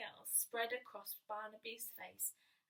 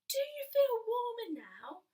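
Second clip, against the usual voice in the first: louder, higher calling question; 10 semitones higher, 8 dB louder than usual. Acted. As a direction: call across the room to him. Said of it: "they called".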